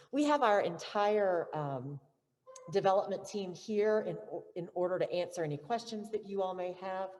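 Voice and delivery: muffled behind a mask; through a face mask. Real, not acted. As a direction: speak through a cloth mask. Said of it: "it's kinda hard to speak with this mask on".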